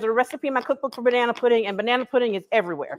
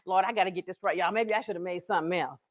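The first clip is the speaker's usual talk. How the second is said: nervous aside; 6 semitones lower, 7 dB quieter, faster than usual. Real, not acted. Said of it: "the pressure".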